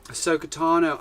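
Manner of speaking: put-on laid-back surfer accent on Sokotano. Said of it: "like, a surfer accent".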